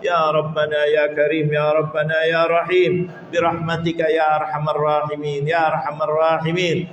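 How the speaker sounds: earnest, chanting supplication with ya Allah refrains; a heartfelt prayer intoned for the congregation; closing prayer. Real, not acted.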